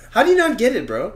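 mock exasperation. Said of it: "I don't have time for that".

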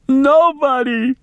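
put-on high, slow wailing old woman; wailing maid. A narrator's reading. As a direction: wail it high and long. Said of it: "she wailed".

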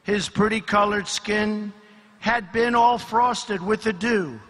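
measured storytelling, pausing after each phrase; dramatic verse reading with deliberate pauses; poem recital. Acted. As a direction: declaim a rhyming fable to a crowd.

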